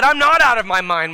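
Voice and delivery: emphatic rebuttal. Acted. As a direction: push back hard and loud. Acts Paul's emphatic reply.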